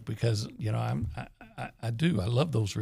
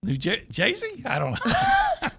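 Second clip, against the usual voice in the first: mock New York accent; slower than usual. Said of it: "Do New York".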